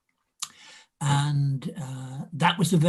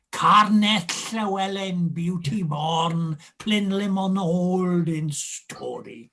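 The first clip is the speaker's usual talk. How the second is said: slow, sonorous recital of a favourite line; Welsh poetic recitation; 2 semitones higher, slower than usual. Shown as a demonstration. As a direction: recite it lingering on the Welsh names. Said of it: "My favorite line is Undermill Wood".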